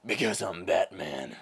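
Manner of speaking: low, slow vigilante impression; Batman. Masked hero naming himself, low slow voice. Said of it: "I have seventeen impressions for you".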